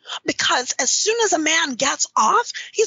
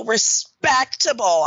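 respectable drawn out in air quotes; verbal air quotes; 6 semitones lower, slower than usual. Real, not acted. Doubting that men are as respectable as they seem, verbal air quotes. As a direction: say "respectable" slowly, as if quoting it. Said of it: "putting air quotes around that word".

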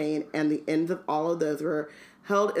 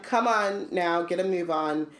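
light Hagrid voice. Retold or imitated. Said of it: "Hagrid called".

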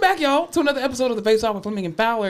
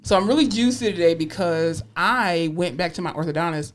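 speaking around a retainer; lisping slightly with a retainer; wearing a retainer. Real, not acted. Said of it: "I have my retainer in".

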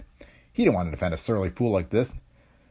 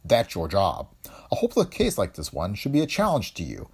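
stern; 6 semitones higher than usual. A narrator's reading. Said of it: "His voice grew stern".

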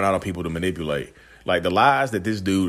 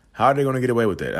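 outraged; 5 semitones higher, 4 dB louder, much faster than usual. Real, not acted. Outraged rhetorical question.

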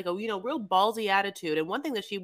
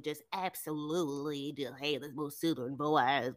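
put-on a light southern-girl voice, lower and softer; imitating Stephanie; 6 semitones lower, 6 dB quieter than usual. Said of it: "Stephanie talks like this".

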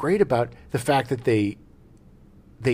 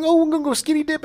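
put-on airy girl voice; faster than usual.

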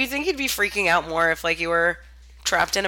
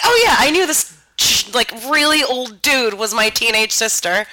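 mock casual; 4 semitones higher, 5 dB louder than usual. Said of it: "who's just like".

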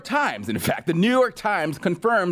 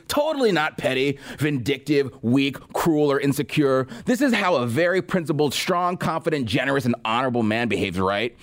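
sarcastic. Retold or imitated. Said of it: "Again, dripping with sarcasm".

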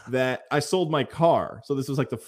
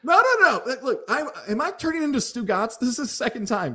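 flustered protest; 10 semitones higher than usual. Real, not acted. Denying he wants the money.

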